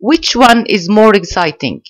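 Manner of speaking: slow, deliberate read-aloud of the question. Shown as a demonstration. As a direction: stretch out each word for learners. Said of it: "teacher reads question slowly". (قراءة بطيئة ومتأنية)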